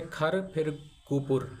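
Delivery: खर, pause, then गुपुर; syllable by syllable. Shown as a demonstration. Teacher showing learners the two syllables, split apart. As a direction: break the name after खर, saying each part apart. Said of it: "दो syllable हैं".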